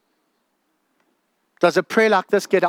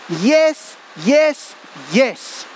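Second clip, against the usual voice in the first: emphatic yes; 4 semitones higher, much slower than usual. Real, not acted. Preacher affirming God answered.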